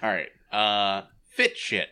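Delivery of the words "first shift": Boston accent, fit for first. Shown as a demonstration. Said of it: "your Boston accent was too thick".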